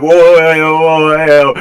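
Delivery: little guys flinching from a sword; startled whoa. Acted. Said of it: "the two little guys are like".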